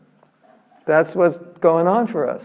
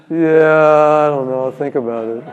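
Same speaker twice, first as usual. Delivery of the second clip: indifferent shrug. Retold or imitated. Mock indifferent answer.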